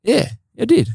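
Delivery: very high, drawn-back retold reply; mock sheepish admission. Admitting the botched signal to a teammate, mock sheepish. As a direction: answer way up high, playing caught out.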